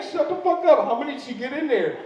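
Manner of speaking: teasing a coworker with shocked laughter; stunned disbelief. Retold or imitated. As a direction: crack up in disbelief at your buddy. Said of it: "I'm like".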